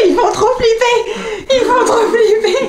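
slow laughing delight. Real, not acted. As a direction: laugh through the words. Laughing at the scare.

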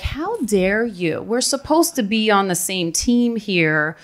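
retold indignation, drawn out slowly; indignant anger. New hire confronting a doubting teammate, slow indignant anger. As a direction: act out being affronted, stretching the words. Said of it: "I was so mad".

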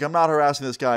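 mild retold yell. Skater calling out over the man's police call, mild yell. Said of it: "And I yell out".

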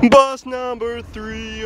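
high, loud, slow announcement; excited call. Real, not acted. Candidate loudly hails his arriving bus, excited. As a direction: sing out the bus number.

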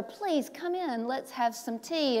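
soft, slow kind invitation; a hint of a gentle old man. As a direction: calmly invite her in. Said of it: "the little old man said to her".

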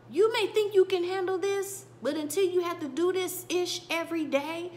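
put-on fed up boyfriend raising his voice at her; frustrated tone. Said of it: "giving her that tone to say".

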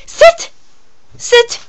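sharp, high command to dog. Real, not acted.

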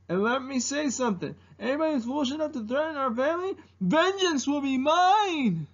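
high, grandiose vow of vengeance; Mushu. Acted. Dragon swearing to protect our family, high grandiose impersonation. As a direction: build from quick boast to long ringing threat. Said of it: "doing an impersonation of Mushu".

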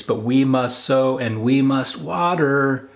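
ordinary talk, nothing marked

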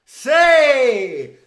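high, loud cheer; joyful shout. Real, not acted. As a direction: cheer the goal. Celebrating a goal.

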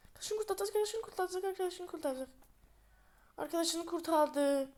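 high excited chant; tense rising hope. Real, not acted. Rescue about to happen.

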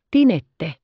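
calling out. A narrator's reading. Rottenmeier calling for the maid.

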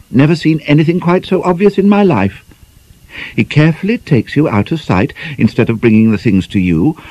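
sly schoolgirl teasing her friend; teasing young girl. Acted. Teasing girl voiced, long run.

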